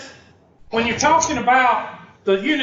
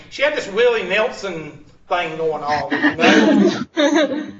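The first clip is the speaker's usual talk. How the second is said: laughing; slower than usual. Real, not acted. Laughing at the memory.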